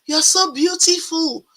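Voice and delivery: high, excited gush of praise; imitating an admiring man's delight; gushing compliment. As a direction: mimic his delighted admiration. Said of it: "he said".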